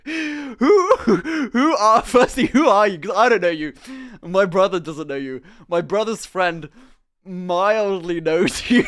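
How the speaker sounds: loud, high, incredulous; bewildered. Retold or imitated. Speaker confronting the drunk stranger, loud and incredulous. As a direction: demand who he is, half laughing. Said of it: "And I was like".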